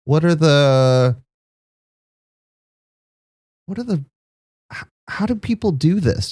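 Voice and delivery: a tiny, nervous frog asking politely; small shy frog guest, hungry but apologetic; Sal the small frog. Acted. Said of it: "and says".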